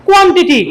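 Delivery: "কোয়ান্টিটি" with plain k and t; no puff of air in "কোয়ান্টিটি". Shown as a demonstration. Teacher showing how we read quantity before, unaspirated. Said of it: "পড়ে আসছি".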